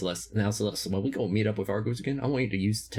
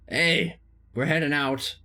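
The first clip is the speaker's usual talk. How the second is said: calling out; 7 semitones higher, 6 dB louder, slower than usual. Real, not acted. Calling out to the group.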